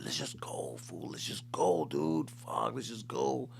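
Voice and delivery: nervous whisper. Retold or imitated. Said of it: "getting in my head".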